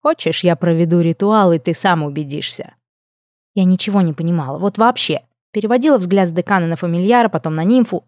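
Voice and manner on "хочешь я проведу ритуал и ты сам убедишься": lightly voiced murmuring nymph; a hint of a silky, teasing nymph; purring nymph. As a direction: nymph cooing to the dean. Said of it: "прожурчал голосок Клаудивь".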